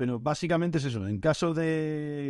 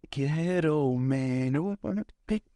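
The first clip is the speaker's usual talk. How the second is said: mock food order; much slower than usual. Joke order while filling search time.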